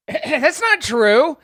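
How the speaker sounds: slow, laughing protest; laughing denial. Real, not acted. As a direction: laugh it off as untrue.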